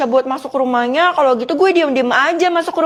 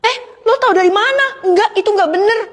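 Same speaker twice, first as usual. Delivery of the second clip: much higher, startled question; caught off guard; 5 semitones higher than usual. Acted. Friends caught about their secret, blurting high in shock. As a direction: blurt out in shock at being found out.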